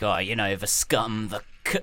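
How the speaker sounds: a light mock Danny Dyer cockney accent. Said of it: "the Danny Dyer accent".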